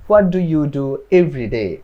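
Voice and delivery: each word slow and separate; slow model sentence. Shown as a demonstration. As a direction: spell it out slowly for learners. Teacher models question.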